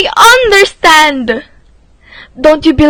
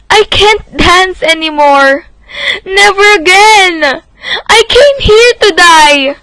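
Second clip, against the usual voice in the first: tearful despair. Acted. Girl remembers she came to die.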